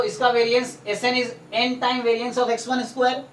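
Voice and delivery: slow, each word set apart; dictating pace; slow dictation. Shown as a demonstration. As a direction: dictate so the student can write it down. Tutor dictating formula to student.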